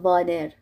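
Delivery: "وادر" starting on a v; mispronounced V for W. Shown as a demonstration. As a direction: say "وادر" with teeth on lip, not rounded. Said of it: "مثلاً بگم وادر". («وادر» با واو فارسی)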